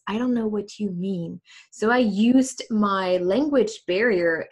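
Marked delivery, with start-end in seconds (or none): 0.0-1.4 mock excuse. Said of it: "That was my standard sentence".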